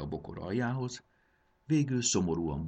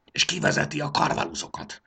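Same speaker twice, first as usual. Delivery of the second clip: a startled, bewildered question, higher and louder; taken aback; 11 semitones higher, 6 dB louder than usual. A narrator's reading. Arca, puzzled by the new commander, asks in surprise. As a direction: ask it as if the news makes no sense. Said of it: "kérdezte megütközve".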